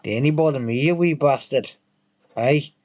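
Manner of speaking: put-on lightly jokey Scottish accent; Scottish accent, playfully imitated; mock Scottish accent. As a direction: put on a teasing Scots lilt. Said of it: "taking the piss out of Scottish".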